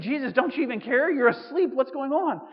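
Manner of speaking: panicked screaming. Retold or imitated. Disciples yelling at sleeping Jesus in the storm, panicked mock scream. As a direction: imitate disciples yelling in a storm, partly hammed. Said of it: "they start screaming".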